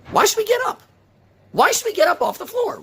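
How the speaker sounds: high, loud insistent question; impassioned plea. Real, not acted. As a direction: press the question hard. Rising rhetorical plea.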